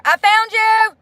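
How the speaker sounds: high, loud cry of relief; excited relief. Real, not acted. Streamer finally finds the viewer she blocked, excited high cry. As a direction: shout it like finding a lost friend.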